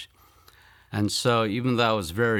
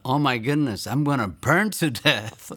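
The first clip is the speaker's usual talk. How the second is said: panicked thought; 5 semitones higher than usual. Retold or imitated. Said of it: "And so I thought".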